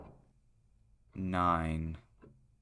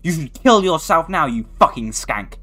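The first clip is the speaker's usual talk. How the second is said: angry insults; 5 dB louder than usual. Real, not acted. Yelling insults at game monster.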